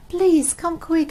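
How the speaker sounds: urgent. Acted. Mummy Pig calling for help.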